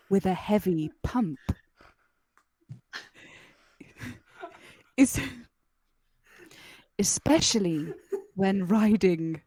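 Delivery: sultry narrator. Pretend. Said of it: "read out some more not sexy things in a sexy voice".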